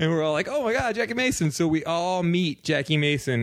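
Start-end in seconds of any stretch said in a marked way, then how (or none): 0.5-1.5 much higher, excited starstruck cry; mock starstruck gasp. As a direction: squeal the name like a fan. Starstruck group meeting celebrity.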